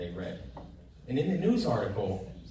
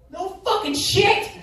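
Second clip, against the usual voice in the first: much higher, louder, slower exasperation; exasperated rant; 9 dB louder, slower than usual. Real, not acted. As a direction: hammer home the obvious in disbelief. Ranting about the bank greeter.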